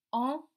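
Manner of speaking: "Enveloppe" in three separate beats, en, ve, loppe; split into syllables. Shown as a demonstration. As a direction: leave gaps inside "Enveloppe". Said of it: "Où est-ce qu'on entend".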